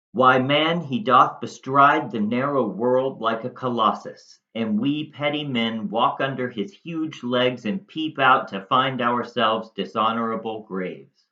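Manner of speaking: emphatic Shakespearean recitation, weighty pauses; dramatic monologue reading. Acted. Teacher reading Cassius's speech to students, measured dramatic delivery. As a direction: declaim it as Cassius working on Brutus, stressing key words. Rereads monologue's first sentence aloud.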